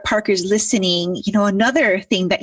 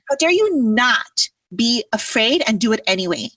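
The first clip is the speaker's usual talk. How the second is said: playful scolding challenge; half-hearted imitated tough love; mock yell; 4 semitones higher than usual. Imitating mentor scolding her in front of the group. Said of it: "I yelled".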